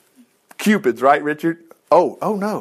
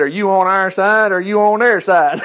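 laughing question; 3 semitones higher, 4 dB louder than usual. Acted. Joshua questioning the angel, laughing.

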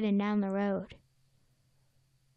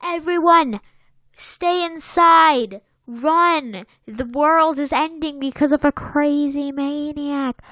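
hollered headlines; 2 semitones higher, 6 dB louder than usual. Retold or imitated. Newsboy shouting news of the maniac in Bronx accent. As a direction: warn the whole street in a Bronx holler.

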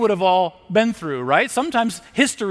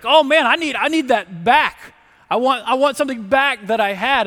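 whiny craving; 7 semitones higher, 5 dB louder than usual. Retold or imitated. Voicing someone wanting comfort back.

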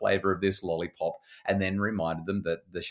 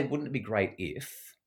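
wistful wishing tone; 2 semitones higher, 3 dB quieter, slower than usual. Shown as a demonstration. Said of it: "we're actually saying very clearly".

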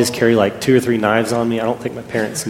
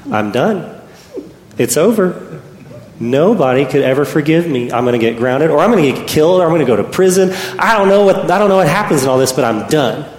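rising, louder panic building to a cry; boy panicking after stabbing his friend, voice climbing; panicked despair; 5 semitones higher, 4 dB louder than usual. Retold or imitated. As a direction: spiral into frantic teenage despair. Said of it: "I thought".

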